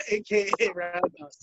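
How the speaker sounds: put-on slow, grand old-time radio introduction; 1930s radio announcer. Shown as a demonstration. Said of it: "like a fucking nineteen thirties radio announcer".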